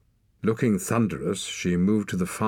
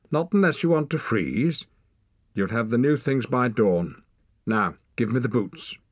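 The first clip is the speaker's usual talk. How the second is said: high, loud brusque woman's voice; brisk and grieving, hiding it behind orders; a curt seamstress ordering a boy about; gruff older woman; 6 semitones higher, 5 dB louder than usual. A narrator's reading.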